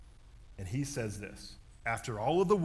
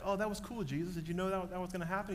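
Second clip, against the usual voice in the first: mock amazed crowd; 6 semitones higher, faster than usual. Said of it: "Nobody went like".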